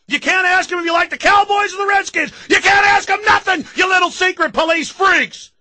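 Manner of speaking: building to a furious high shout; fired-up rant. Real, not acted. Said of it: "I'm fired up today".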